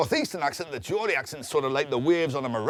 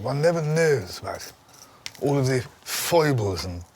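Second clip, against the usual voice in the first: Prince of Wales impression; 3 semitones lower than usual. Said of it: "And he sort of said".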